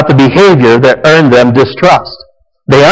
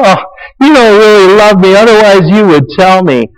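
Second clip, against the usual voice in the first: whiny Delilah; 7 semitones higher than usual. Retold or imitated. Delilah pressures Samson for his secret, whining high. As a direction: whine it like a nagging temptress. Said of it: "now she's whining again".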